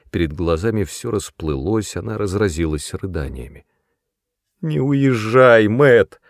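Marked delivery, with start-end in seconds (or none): 4.6-6.2 slow, louder, higher crying plea; sobbing plea. A narrator's reading. Sister begs her brother to stay, sobbing. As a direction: beg him through sobs. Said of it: "всхлипывала она".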